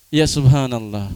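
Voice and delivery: subhanallah said in disbelief and disapproval; disapproving astonishment. Shown as a demonstration. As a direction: say subhanallah as a reproach, not praise.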